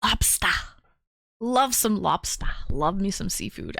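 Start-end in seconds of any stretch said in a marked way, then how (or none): 0.0-0.5 put-on playful New England accent, R dropped. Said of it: "you're in New England". 1.4-2.5 lightly put-on New England accent. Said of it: "you're in New England".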